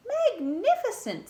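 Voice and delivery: high, loud gushing praise; amazed praise. Acted. Princess praising the dragon, loud mock amazement. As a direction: lay the praise on thick.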